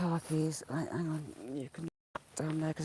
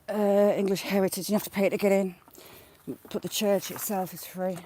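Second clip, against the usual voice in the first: raised voice; 7 dB louder than usual. Real, not acted. Loud over outdoor noise.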